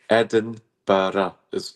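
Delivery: Edinburgh said slowly as four syllables, Ed-in-bur-a; Edinburgh stretched into four clear beats; drawn out Edinburgh. Shown as a demonstration. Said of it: "is four syllables".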